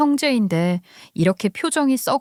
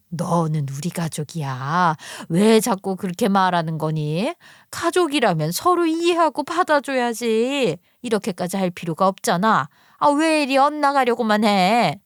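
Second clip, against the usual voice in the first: understated pleading turning to reproach; reproachful mother. Acted. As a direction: reason with your daughter, then scold. Narrator voices reasoning mother.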